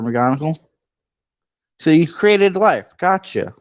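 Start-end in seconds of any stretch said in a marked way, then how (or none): 1.8-3.5 sarcastic. Real, not acted. Sarcastic aside to the book.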